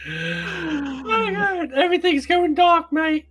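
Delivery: very high, slow fake Australian voice; hammed-up Australian accent; mock Australian. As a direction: ham up a dramatic fading-out in a cartoon Aussie accent. Mock Australian dying scene.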